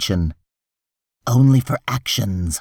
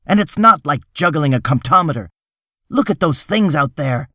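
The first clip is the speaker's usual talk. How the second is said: higher-pitched, harried self-justification; exasperated protest; 5 semitones higher than usual. Acted. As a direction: insist you're doing all you can. Hartz protests that he is trying.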